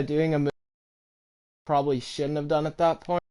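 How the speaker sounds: glitchy robot voice from lag; robot voice with digital stutter. Real, not acted. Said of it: "does anyone hear me talking like a robot".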